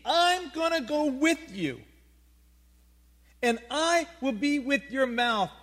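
God reassuring Moses, booming. Acted. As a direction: proclaim it like the creator. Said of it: "Let's paraphrase".

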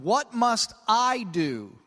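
slow question, landing hard on "I"; stress on I. Retold or imitated. Preacher quotes the lawyer's question, stress on "I". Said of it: "You see his emphasis".

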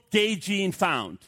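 slow, deliberate headline read; headline announcement. Retold or imitated. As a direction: spell out the headline slowly like a banner. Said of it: "splashed all over the headlines".

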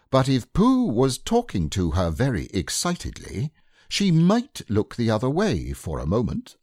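measured, self-important reading of a numbered plan; proud read-out. A narrator's reading. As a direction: read out each point proudly, like formal remarks. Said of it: "Rabbit read this out proudly".

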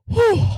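high mock whew of relief; sigh of relief. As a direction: let the relief out in one high breath. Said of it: "that sigh of relief".

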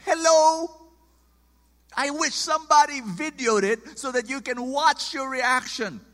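indignant preacher telling off a parent; imagined telling-off. Retold or imitated. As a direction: scold the father, loud and high. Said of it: "I wanted to tell him".

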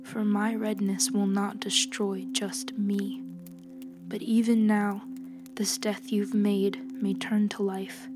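soft, steady, grave woman healer; quiet judgment, measured and cold; calm stern healer. Acted. Healer's quiet whispered reply.

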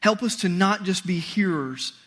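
slow, hushed prayer voice. Acted. Pastor leads the congregation in prayer, reverent and slow. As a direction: pray reverently, unhurried.

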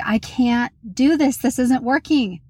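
mildly acted overwhelmed protest; at breaking point. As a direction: act out being fed up, pitch rising. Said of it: "at my breaking point".

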